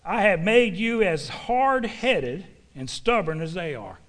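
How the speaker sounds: slow, weighty preacher's reading; slow, deliberate Bible recitation; emphatic scripture reading. Real, not acted. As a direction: proclaim the verse, punching key words. Reads scripture aloud to congregation.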